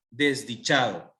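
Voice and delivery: "desdichado" slowly, leaning on "cha"; stress on CHA. Shown as a demonstration. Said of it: "el acento está en cha". ("desdichado" lento, con acento en "cha")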